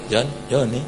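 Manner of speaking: low, soft calling; half-hearted call. Shown as a demonstration. Calling someone far away without conviction, soft and low. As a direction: barely raise the voice. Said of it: "Kalau orang agak jauh, Anda panggil".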